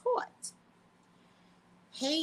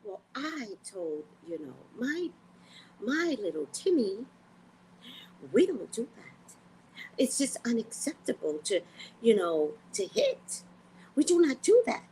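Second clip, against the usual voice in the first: mocking a prim parent's polished talk; lightly sent-up proper parent; prim school parent; 2 semitones higher than usual. Parent at school meeting, a mild prim send-up. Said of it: "at a meeting waiting for your child".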